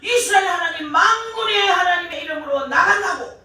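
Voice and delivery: high, ringing battle defiance; bold declaration. Retold or imitated. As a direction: proclaim it fearlessly to the enemy, pitched well up. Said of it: "그는 담대히 말하기를".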